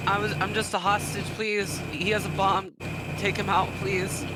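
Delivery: high, pleading hostage cry; panicked scream. Acted. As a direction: beg for your life, voice up high. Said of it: "I'm gonna scream".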